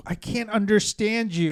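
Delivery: mock white lady. White lady heckling young comic.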